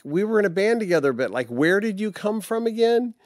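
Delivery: high, fast mock-puzzled question; imitating a puzzled old bandmate. Old bandmate asking where you came from, high and fast. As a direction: rattle it off high like a friend who forgot. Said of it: "you're like".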